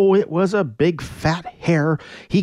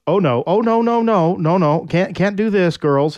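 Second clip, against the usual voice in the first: flustered father; 6 semitones higher than usual. Acted. Neptune voiced refusing.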